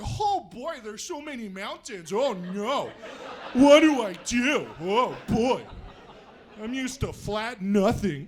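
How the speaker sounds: lightly put-on Midwestern accent, flustered; a flustered Midwest driver in the mountains, lightly done. Lost Midwest driver facing the mountains, light Midwestern accent. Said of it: "It's a good Midwestern accent".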